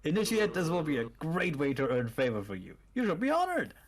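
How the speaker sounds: cultist voice. Acted. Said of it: "you switch cultist voices".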